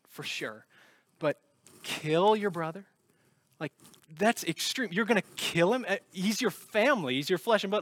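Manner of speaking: mildly outraged, asking how they could do that; lightly voiced shocked bystander; incredulous reader. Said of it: "It's easy to read this and think".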